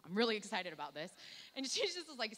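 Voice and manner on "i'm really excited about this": mock excited. Joking to wife about doctor.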